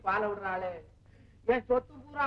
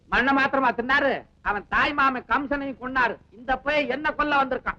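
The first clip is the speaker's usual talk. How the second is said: loud retort; 7 dB louder than usual. Acted. Heated quarrel.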